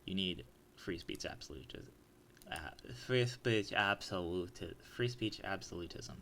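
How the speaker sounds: tripping over words while tipsy; tipsy slurring. Real, not acted. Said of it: "Sorry, I'm a little tipsy".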